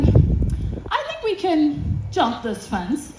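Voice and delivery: slow, drawn-out imitated proposal; sly suggestion. Companion proposes jumping a fence, slow and tempting. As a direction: float a daring idea slowly.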